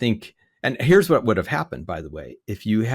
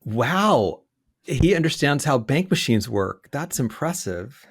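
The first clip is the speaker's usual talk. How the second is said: sarcastic; slower than usual. Real, not acted. Sarcastic remark about scammer.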